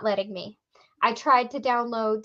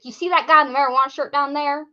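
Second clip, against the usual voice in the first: kid's backwoods Southern accent, lightly mimicked; lightly put-on Southern backwoods accent; imitated backwoods accent; 2 semitones higher, 4 dB louder than usual. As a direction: mimic a rural Southern kid. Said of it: "if I can get his accent right".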